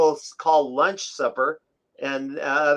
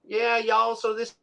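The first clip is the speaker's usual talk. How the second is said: light Southern drawl on the realtor's words, slightly higher; mock Southern accent; 5 semitones higher, 4 dB quieter than usual. Retelling the Kentucky realtor for listeners, light Southern accent. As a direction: lightly imitate a Southern realtor showing the house. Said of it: "a Southern accent coming out of his mouth".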